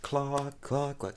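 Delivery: chicken clucks. Retold or imitated. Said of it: "she was like".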